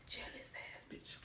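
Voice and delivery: slow, drawn-out whisper; whispered insult. Retold or imitated. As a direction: whisper the taunt slowly. Same insult repeated as whisper.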